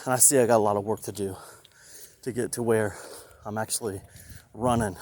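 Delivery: out of breath, talking fast; puffing while walking. Real, not acted. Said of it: "Sorry, I'm out of breath".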